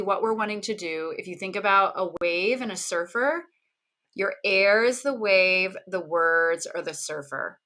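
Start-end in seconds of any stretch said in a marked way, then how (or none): none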